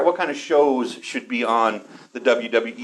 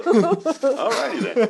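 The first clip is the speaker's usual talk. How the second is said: Jim Carrey impression; 11 semitones higher, much slower than usual. Catchphrase impression.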